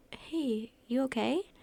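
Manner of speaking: lightly concerned, pitch rising at the end; concerned question. A narrator's reading. Wendy checks on her coughing friend, concerned.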